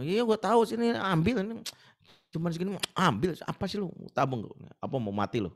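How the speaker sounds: loud, threatening street extortioner; mock thug. Thug threatening the scared schoolboy, loud and menacing. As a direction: lean on him like a bully. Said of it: "thug demands money".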